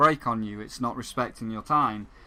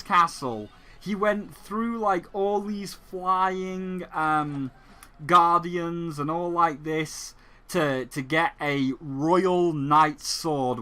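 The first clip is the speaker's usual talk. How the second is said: mocking taunt; 3 semitones higher than usual. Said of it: "it's like".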